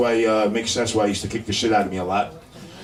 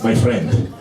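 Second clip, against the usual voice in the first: put-on Greek accent; slower than usual. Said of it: "they always used to add the word "my friend".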